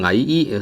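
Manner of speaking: 矮 drawn out with a rising glide; second-tone rise on 矮. Shown as a demonstration. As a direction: stretch 矮 so the tone climbs. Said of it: "so it's a rising tone".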